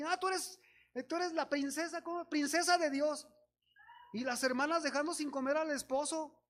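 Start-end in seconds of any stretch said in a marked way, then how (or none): 0.0-3.3 higher, haughty mocking voice; mock proud princess. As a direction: sneer it like a self-important princess. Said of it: "bien orgullosos ahí". (burla altiva y aguda de princesa orgullosa)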